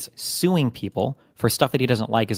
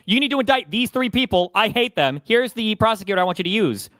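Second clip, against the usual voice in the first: Trump quote; 8 semitones higher than usual. Retold or imitated. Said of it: "He literally posted on Truth".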